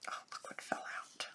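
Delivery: whispered. Real, not acted. Repeats the line under her breath.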